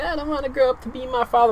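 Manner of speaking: lightly mock a sulking brat; bratty kid. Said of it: "he was a bratty kid".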